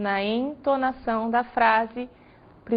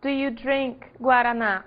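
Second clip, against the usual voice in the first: slow example; slower than usual. Shown as a demonstration. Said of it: "Outra pergunta que nós vamos ver".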